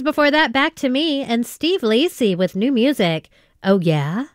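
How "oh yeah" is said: "Oh, yeah?" with a rising question tune at the end. Shown as a demonstration. Radio host reading the song title, rising question tune. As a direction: lift "yeah?" up like you're asking. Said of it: "so you have to say it like that".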